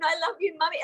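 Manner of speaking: a hint of a little kid crying; lightly voiced child to her mum; childlike plea. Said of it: "like I was a little kid again".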